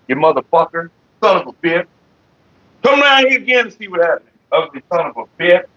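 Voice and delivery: cussing out a roach. Real, not acted. Man at his desk warns a roach to stay away, cursing. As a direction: curse the roach off, warning it not to return. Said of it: "I think I cussed him out good enough".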